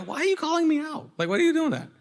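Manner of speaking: high-pitched imitation of an indignant listener; mock protest. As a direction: act out a called-out listener, high and quick. Acting out indignant listeners called out.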